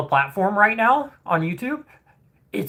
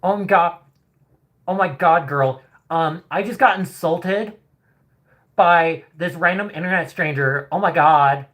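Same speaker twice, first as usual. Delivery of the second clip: mock dramatic hater; 3 semitones higher than usual. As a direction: overplay the shocked insulted girl. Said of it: "Or are they more".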